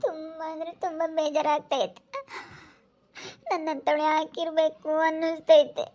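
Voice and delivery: acted tearful despair. Upset sister laments her life to a comforting friend, tearful. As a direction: say it through acted crying. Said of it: "ಯಾಕೆ ಅಳ್ತಿ ಅಕ್ಕ".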